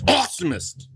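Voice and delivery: monster truck announcer. Acted. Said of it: "like, monster truck announcer".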